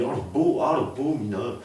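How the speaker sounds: angry lady yelling at a passer-by; mock yell. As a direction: hurl a hammed-up insult. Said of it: "elle me crie dessus".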